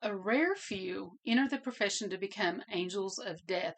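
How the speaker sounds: normal talking voice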